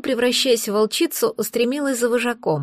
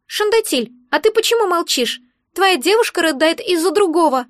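higher, grumbling little creature voice; grumpy egg creature; 7 semitones higher than usual. Acted. Magic egg scolds the crying girl, higher and grumpy.

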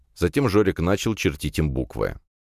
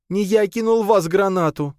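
higher, louder sobbing protest; 3 dB louder than usual. A narrator's reading. Lad denies the grenade to Nadya, sobbing. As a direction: plead with a sob. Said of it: "всхлипнул паренёк".

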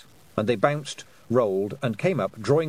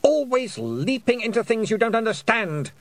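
usual speaking voice

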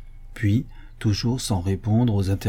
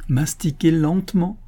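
higher, insistent instruction; instructing; 5 semitones higher than usual. Acted. Majordomo passes on the magician's orders, insistently. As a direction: urge it on the listener.

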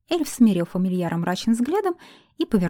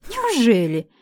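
a lightly raised mock-surprised Неужели; ironic; 4 semitones higher, 4 dB louder, slower than usual. A narrator's reading. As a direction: tease him with dry irony. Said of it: "иронически поинтересовалась я".

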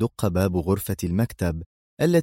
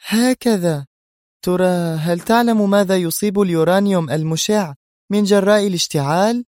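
much higher, louder scornful taunt; scornful Sonia; 11 semitones higher, 5 dB louder than usual. A narrator's reading. Sonia mocking Adham's plan, high scornful voice. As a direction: challenge him with contempt. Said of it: "ضحكت سونيا ضحكة ساخرة".

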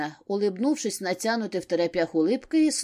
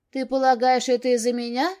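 Lida bristles, voice jumping higher and louder; flared up; 5 semitones higher, 5 dB louder than usual. A narrator's reading. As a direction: snap back, stung. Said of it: "вскинулась Лида".

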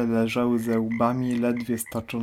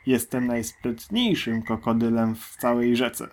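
firm. Acted. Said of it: "stanowczo powiedział olbrzymi".

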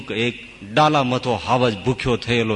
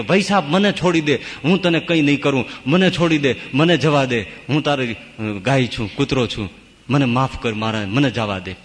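begging. Acted. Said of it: "એ પેલા સિંહના પગમાં અળોટે છે કે".

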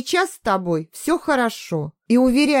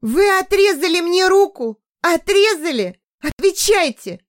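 much higher, louder panicked cry; horrified scream; 10 semitones higher, 4 dB louder than usual. A narrator's reading. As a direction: shriek the question. Hysterical captive demands answers.

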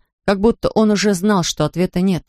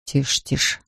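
hushed; 4 semitones lower, 5 dB quieter than usual. A narrator's reading. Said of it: "прошептал Рэмзи".

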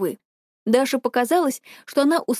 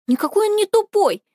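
indignant cry; 10 semitones higher than usual. A narrator's reading. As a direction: cry out in his defence. Sister defends Vadim in quarrel.

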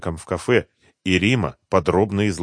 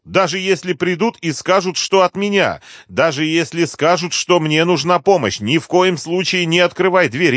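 higher, louder, pressing warnings to grandma; urgent granddaughter; 10 semitones higher, 8 dB louder than usual. Acted. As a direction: drive every order home, don't let her argue.

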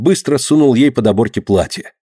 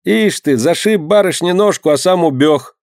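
clucking women; 6 semitones higher than usual. A narrator's reading. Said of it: "заохали женщины".

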